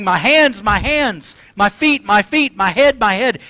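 high, loud cries in short repeats; acted screaming, held short of full force; mock scream. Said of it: "But he's not screaming".

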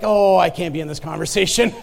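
laughing, backing out; awkward laughing retreat; uneasy joke with a laugh; laughing panic. Retold or imitated. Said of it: "I'm like".

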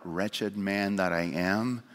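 "Wretched man that I am" slow and low, hollow; a lightly voiced empty lament; insincere cry. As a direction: say it without meaning a word of it. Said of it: "and not mean it at all".

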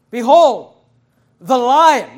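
loud, slow behold; proclaiming scripture. Acted. Preacher proclaims John's words to the congregation, loud and slow. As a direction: announce it to the whole church.

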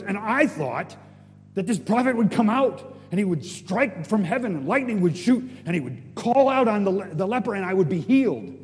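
grand, loud tirade; angry. Acted. General expecting a spectacular healing, hammed-up angry tirade. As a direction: rant high and loud like an affronted general. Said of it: "he gets angry".

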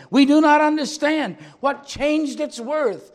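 loud, high puzzled cry, slowing at the end; crowd crying out. Acted. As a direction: call out in bewilderment. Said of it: "some of them cried".

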